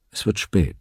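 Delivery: calm, understated remark; ruhig. A narrator's reading. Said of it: "sagte ruhig". (ruhig und gefasst)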